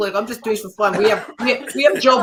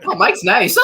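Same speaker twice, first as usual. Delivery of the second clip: giggling while imitating; laughing; 2 semitones lower, 3 dB louder, slower than usual. Real, not acted. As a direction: laugh through the line.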